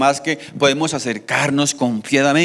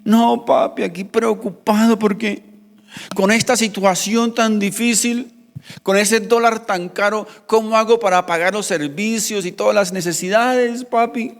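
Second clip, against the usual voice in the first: put-on a higher, pleading little boy's voice; worried child; 5 semitones higher than usual. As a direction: play the anxious son begging his dad. Hijo de diez años llorando. (voz de niño angustiado que le suplica a su papá)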